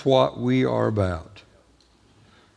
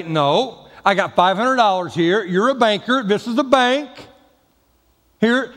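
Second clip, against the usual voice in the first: insistent customer; 5 semitones higher than usual. Pretend. Arguing with the banker.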